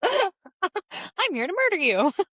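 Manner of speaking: very high squeak, swooping around. Picturing a character's voice badly cast, speaking his lines in a Mickey Mouse voice. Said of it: "Sounds like Mickey Mouse".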